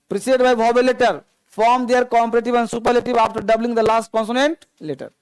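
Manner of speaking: very slow, word by word dictation. Shown as a demonstration. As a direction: dictate each word so the class can copy it. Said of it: "spelling लिखो". (बच्चों को धीरे-धीरे लिखवाना)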